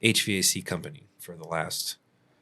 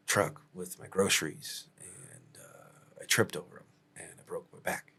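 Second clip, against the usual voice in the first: impression of T; 4 dB quieter than usual. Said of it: "I'll do the impression".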